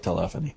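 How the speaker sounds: telephony said as tuh-LEFF-uh-nee; preferred pronunciation of telephony. Shown as a demonstration. Co-host picks his favorite, telephony as tuh-LEFF-uh-nee. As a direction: put the stress on LEF in telephony. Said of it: "Is it telephony or telephony".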